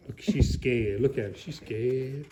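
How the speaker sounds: hushed. Acted. Narrator hushing about scared shopkeeper.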